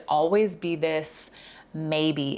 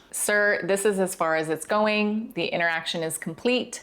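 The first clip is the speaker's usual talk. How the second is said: warm but strict; 2 semitones higher than usual. Shown as a demonstration. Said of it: "Think warm but strict".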